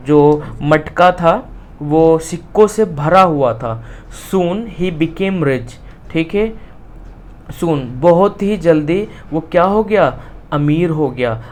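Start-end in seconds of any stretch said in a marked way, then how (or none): 4.3-5.7 slow, word-by-word reading; slow reading aloud. Shown as a demonstration. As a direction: dictate it to the class. Teacher reads textbook line. (धीरे-धीरे पढ़ना)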